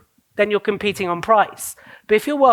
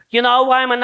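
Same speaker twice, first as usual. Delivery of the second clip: Gary Vee; 4 semitones higher, 4 dB louder, faster than usual. Acted. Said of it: "I can't even do the accent".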